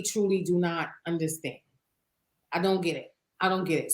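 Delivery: quietly fed up, voice dropping. Real, not acted. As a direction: let frustration sink the voice a little. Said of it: "how my voice got deeper, 'cause I'm frustrated".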